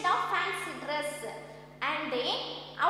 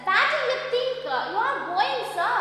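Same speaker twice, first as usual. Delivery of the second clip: loud, higher-pitched challenge; stern challenge; 6 semitones higher, 6 dB louder than usual. Retold or imitated. Gods stop Nasruddin outside the banquet hall, loud stern challenge. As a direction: stop someone with a raised, high voice.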